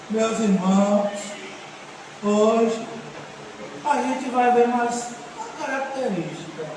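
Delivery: low, slow, lifeless preaching with long pauses; pregador sem sabor. Acted. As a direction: drag it out quietly, as if drained of all energy. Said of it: "A pessoa falando sem gosto, sem sabor". (pregação arrastada, sem gosto nem tempero)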